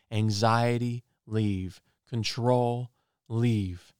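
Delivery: firm, slow declarations, each leave landing hard; commanding prayer. Retold or imitated. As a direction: order the darkness out with authority.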